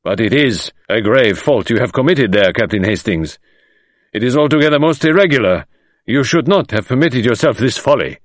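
loud, high-pitched indignant rebuke; indignant scolding. Acted. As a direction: scold the captain for his folly. Magistrate scolds Hastings.

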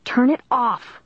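high-pitched narrated shriek. A narrator's reading. Caitlin at the tape player, shrieking. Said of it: "Caitlin shrieked".

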